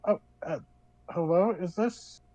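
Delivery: lightly voiced young daughter on the phone; a hint of a shy teenage girl calling; younger feminine voice. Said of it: "younger voice, feminine, go".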